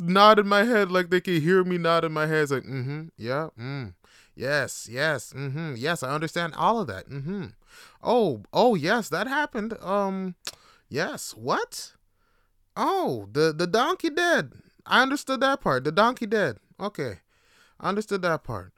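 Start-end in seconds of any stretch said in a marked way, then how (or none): 2.6-11.9 hesitant, politely agreeing on the phone; pretending to follow every word; feigned understanding. 12.8-18.7 higher-pitched dawning recognition; mock realization. Acting relief at catching one phrase.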